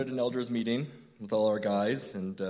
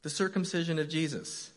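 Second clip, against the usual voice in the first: text title read out with mock disbelief; a raised, half-amused announcement; incredulous reading; 5 semitones higher than usual. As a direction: announce it like you can't believe your luck. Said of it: "And then I get the text".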